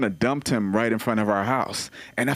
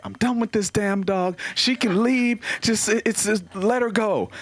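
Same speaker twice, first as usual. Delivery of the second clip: higher, exasperated mock wife; panicking wife; 8 semitones higher than usual. Comic imitating his panicking wife about the runaway dog, exasperated. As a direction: throw up your hands, fed up. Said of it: "my wife called me panicking".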